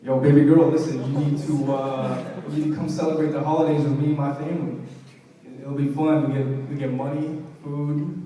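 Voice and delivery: smooth seductive pickup-line voice; sexy voice. Retold or imitated. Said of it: "in my sexy voice".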